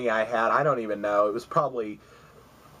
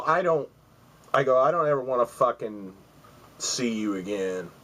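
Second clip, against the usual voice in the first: tough attitude. Retold or imitated. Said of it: "kinda attitude".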